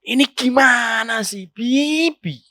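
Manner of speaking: slow, dragged-out complaint rising at the end; wife nags her husband in a slow, rising complaint; impatient wife. Shown as a demonstration. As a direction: whine it with a mild edge. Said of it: "Coba kalau dirubah".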